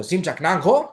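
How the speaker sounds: barbarian, unattractive way. Shown as a demonstration. Teacher showing what would scare a date, blunt delivery. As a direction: fire it out bluntly, without charm. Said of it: "δεν θα το πείτε έτσι όπως το λέω".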